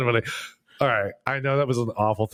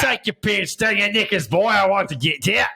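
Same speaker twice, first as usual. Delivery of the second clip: higher, hammed-up Cockney menace; rough British thug accent; 7 semitones higher than usual. Mocking a rough British accent for his friend, higher and hammed-up. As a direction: leer it like a London street tough. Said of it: "their British accent's the one".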